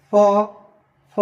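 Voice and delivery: ফ without teeth on lip; lips-only sound. Shown as a demonstration. Teacher contrasting the earlier sound, ফ with lips only. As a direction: pop ফ from both lips, no F hiss. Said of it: "আর আগেরটা".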